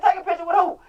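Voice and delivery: mock surprise. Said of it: "I said".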